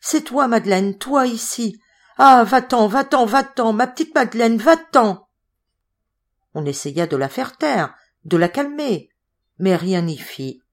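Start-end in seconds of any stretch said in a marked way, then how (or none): 0.0-5.3 shrill, frantic pleading, much higher and louder; terror. Acted. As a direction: push her away in panic, voice cracking high. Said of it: "secouée comme d'une décharge électrique". (terreur, supplication affolée et aiguë)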